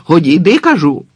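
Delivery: loud, rising then falling order; alarmed shout. Acted. The guard yells at the old man to back off. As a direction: yell it at him in alarm.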